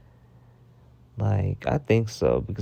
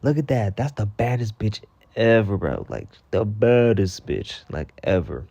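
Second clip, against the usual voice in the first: admiring friend. Shown as a demonstration. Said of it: "bad bitch is like".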